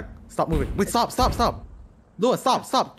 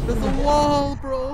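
frustrated shout; 8 semitones higher, much slower than usual. Real, not acted. Frustrated complaint to teammates.

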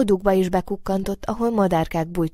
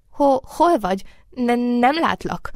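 higher, stuttering frightened rabbit; frightened stammer; 6 semitones higher, 4 dB louder than usual. A narrator's reading. Rabbit searches for unseen moonbeam, stammering with fright. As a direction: stammer nervously into the unknown.

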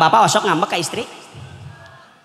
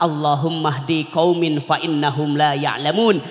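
low, slow forgiving plea; humble low prayer for the people who threw stones; tender prayer; 4 semitones lower than usual. Acted. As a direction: pray gently for those who hurt him. Prophet's prayer for his attackers.

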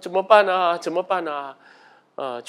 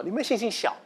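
laughing quote; 7 semitones higher, 4 dB quieter than usual. Retold or imitated. Teasing quote of Jesus' rebuke.

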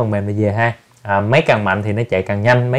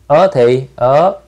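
slow spelling; 3 semitones higher, 3 dB louder, much slower than usual. Shown as a demonstration. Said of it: "Đọc".

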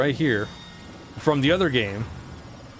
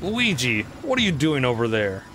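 lightly voiced gloating ghost king; a hint of a smug villain; King Boo voice; 5 semitones higher, 4 dB quieter than usual.

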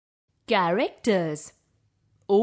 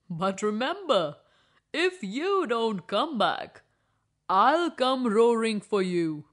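lion warning. Acted. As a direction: let her go but make the threat clear. Lion agrees but warns.

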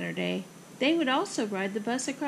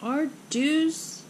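higher, mildly weepy lament; boo-hoo it lightly, pitched up; mock boo-hoo; 4 semitones higher than usual. Mother mourns their hairdos, mock boo-hoo. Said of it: "hoo-hooed Ava's mother".

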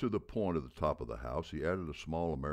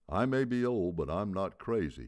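coach's punchline; 6 semitones higher, 5 dB louder than usual. A narrator's reading. Old coach jokes to audience.

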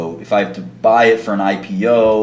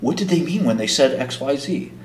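put-on innocent question, slightly higher; fake naive; 4 semitones higher than usual. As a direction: ask it like a clueless white guy. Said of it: "doing this, like, fake, like".

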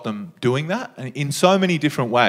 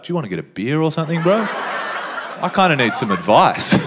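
laughing mock plea; 3 semitones higher than usual. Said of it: "I almost wanna be like".

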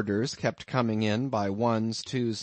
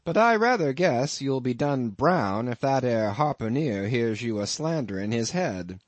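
amused landlord; 4 dB louder than usual. Acted. Innkeeper teasing his lodger about the harpooneer, lightly voiced. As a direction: spin the tale with a sly chuckle underneath.

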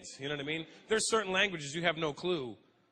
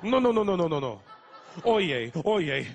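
correcting loudly; 7 dB louder than usual. Retold or imitated. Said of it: "Repeat after me".

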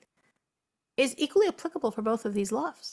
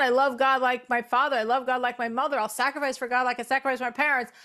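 rattled off in a quick, even run; rote recital; faster than usual. Acted. Doubter showing that saying the words changes nothing, rote recital. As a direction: recite the declarations by rote, barely pausing. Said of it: "I could say all I want".

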